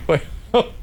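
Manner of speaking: put-on shaky elderly voice reading the menu; very old man. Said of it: "do your old man voice".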